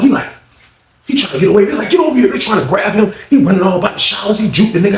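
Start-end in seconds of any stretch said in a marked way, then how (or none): 1.9-2.3 mock shouted order. Guards chasing inmate.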